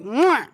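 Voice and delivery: squelchy "mwah" sound effect; imitated jab noise. Retelling a finger jabbed into a shoulder, mock squelch. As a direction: mimic a finger sinking into flesh.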